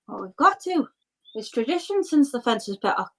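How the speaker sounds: lightly voiced, earnest local; earnest villager. Villager defends a local tradition.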